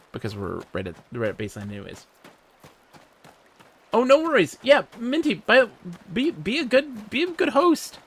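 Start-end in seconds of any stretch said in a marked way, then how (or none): 3.9-8.0 high, coaxing pet talk; high cooing voice. Pretend. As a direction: coo it like talking to a pet. Cooing at Minty in game.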